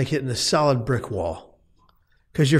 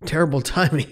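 laughing wryly; 3 semitones higher, faster than usual. Retold or imitated. Laughing at the irony.

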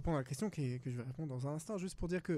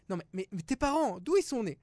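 higher, louder badgering question; mock pushy questioner; 5 semitones higher, 7 dB louder than usual. Man voicing an Israeli pressing about his parents, badgering. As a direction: press him like a nosy stranger.

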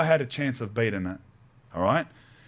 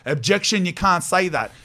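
mock courtroom objection; 6 semitones higher, 4 dB louder than usual. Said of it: "I full pulled out".

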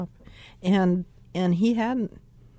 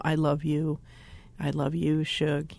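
low, tender bedtime murmur; retold loving reassurance; 4 semitones lower, 4 dB quieter than usual. Spouses assuring each other before sleep, tenderly. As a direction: gently assure your spouse, pitched low. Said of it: "assured each other of our love".

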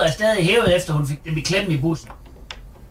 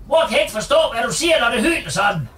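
raised voice over the alarm; shouting over noise; 3 semitones higher than usual. Acted. Mother shouting over the alarm on the phone.

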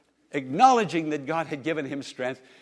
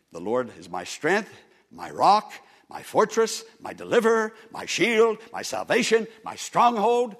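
building proclamation; 3 semitones higher, 4 dB louder than usual. Real, not acted. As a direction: build the list up to a peak. Building list of epithets.

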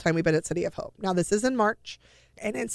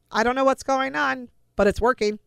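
retold amazement; 6 semitones higher, 3 dB louder than usual. Doctor retold announcing unexpected good news.

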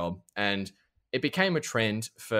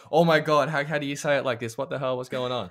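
put-on excited kids; 4 semitones higher than usual. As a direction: play the stunned American kids. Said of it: "They were like".

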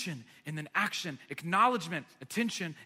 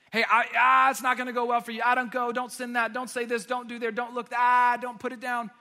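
raised-pitch rapid string of alarms, bursts of volume; frantically head someone off; urgent warning; 3 semitones higher, 5 dB louder than usual. Acted. Conviction warning you it won't go well, acted alarm. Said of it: "It's this".

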